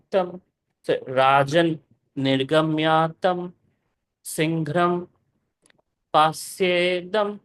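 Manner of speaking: slow, measured chanting of the verse; Sanskrit verse recitation. Acted. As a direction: recite each word slowly and deliberately.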